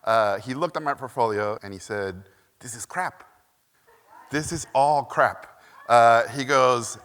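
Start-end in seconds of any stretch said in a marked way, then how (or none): 2.6-5.5 put-on thick Hungarian accent, slow dismissive verdict. Animation legend dismissing a student's portfolio, thick Hungarian accent. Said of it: "he was Hungarian, thick accent".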